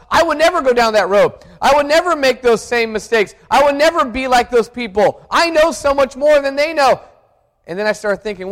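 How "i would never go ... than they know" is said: smug, quick self-assurance; preacher voicing his own proud boast; arrogant thought. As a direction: brag it to yourself. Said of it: "the arrogant thought was".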